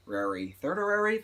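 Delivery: slow, doubtful rising thirdary; questioning. Shown as a demonstration. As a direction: test "thirdary?" slowly, unsure it's a word. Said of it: "That's not a word".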